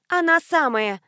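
high, loud scoff; snorting. A narrator's reading. Tanya snorting at the neighbor who didn't recognize her. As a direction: toss it off with a snort. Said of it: "фыркнула я".

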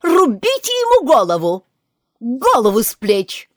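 high, loud furious order; yelling. Acted. Queen screams at poor Bill, loud and furious. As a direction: bellow the execution order. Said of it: "закричала".

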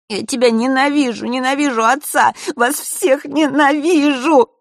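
loud, high hateful yell, slowing; raging scream. A narrator's reading. Младший брат в бешенстве кричит на брата. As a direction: pour all the hatred out. Erik screaming, then crying.

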